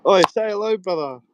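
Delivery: loud, high call to a viewer. Real, not acted. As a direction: hail him across the room. Calling out to a viewer.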